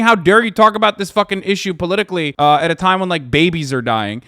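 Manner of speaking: loud mocking quote, slowing at the end; mock outraged quote. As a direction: parody the line they aren't saying. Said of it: "They're not saying".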